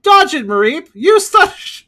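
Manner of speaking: loud, high, drawn-out battle command; Pokémon trainer yell. Retold or imitated. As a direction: shout orders like an anime trainer. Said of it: "how fucking great that meme is".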